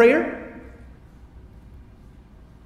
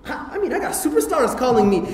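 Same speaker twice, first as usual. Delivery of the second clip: 1 ecstatic bragging; 6 semitones higher, 4 dB quieter than usual. Retold or imitated. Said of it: "be like".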